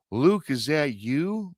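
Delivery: lightly acted call to a visitor; calling out a name. Old woman calls out to her grandson's friend, slow questioning call. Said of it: "she calls out his name".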